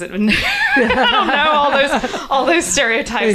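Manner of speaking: laughing high through the words. Real, not acted. Laughing off hillbilly stereotypes to the interviewer, high and giggly. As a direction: giggle out the words, amused at the clichés.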